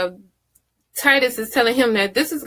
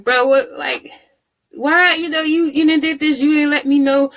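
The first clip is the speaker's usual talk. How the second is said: mock upset protest; 6 semitones higher than usual. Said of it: "Titus goes and tells him, like".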